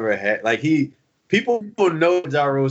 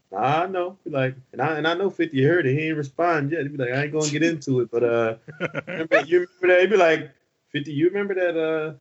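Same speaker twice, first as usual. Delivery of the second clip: put-on calm voice of a singer. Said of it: "a singer really do talk real calm like that".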